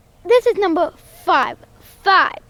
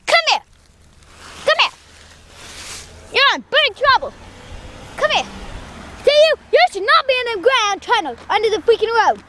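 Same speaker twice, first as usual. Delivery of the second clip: scolding the cat; 3 semitones higher than usual. Real, not acted.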